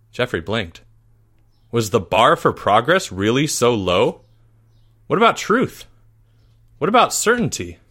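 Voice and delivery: audiobook narrator voicing a pupil's dismay; earnest storytelling with rising indignation; dramatic story narration. A narrator's reading. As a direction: read it with mock-epic drama, lifting the questions.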